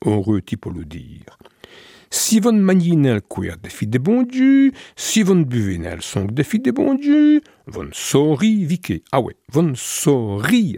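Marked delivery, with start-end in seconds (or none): 2.1-10.8 lightly voiced Jesus preaching, higher; mock preacher Jesus. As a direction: intone it like a village sermon, a bit higher. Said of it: "a-t-il dit". (Jésus qui prêche, voix un peu plus haute)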